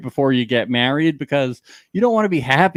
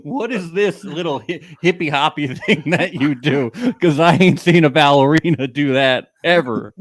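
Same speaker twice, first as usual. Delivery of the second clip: put-on Texas accent. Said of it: "we're giving Becky this accent".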